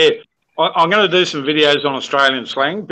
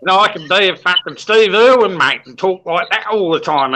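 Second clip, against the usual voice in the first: broad Strine, louder and higher at the start; exaggerated Australian accent; 5 semitones higher, 3 dB louder than usual. Shown as a demonstration. YouTuber showing off his Strine to co-hosts, exaggerated Australian accent. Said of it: "you should hear me speak Strine".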